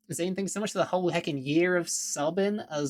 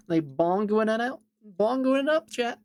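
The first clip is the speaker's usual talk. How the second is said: excited; 6 semitones higher, 5 dB louder than usual. Real, not acted. Excited bongo chant.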